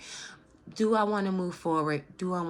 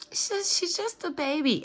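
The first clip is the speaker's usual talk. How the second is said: laughing; 10 semitones higher, 3 dB louder than usual. Real, not acted. Laughing fond remark about wife.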